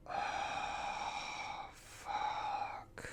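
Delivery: breathy, voiceless oh fuck; softly deflated curse; muttered curse. Retold or imitated. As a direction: mutter it under your breath in dismay. Disappointed reaction.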